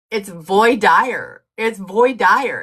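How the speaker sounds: slow, drawn-out Southern voir dire, vwah deer; Southern accent. Retold or imitated. Macon attorney insisting on his Southern accent. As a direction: stretch "voir dire" in a thick Southern drawl. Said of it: "a real thick Southern accent".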